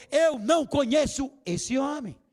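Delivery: loud, slow, emphatic shout of denial; angry denial. Acted. Peter shouting at the servants that he never knew the man, loud and slow. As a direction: hammer out every word of the denial. Peter denying Jesus, acted.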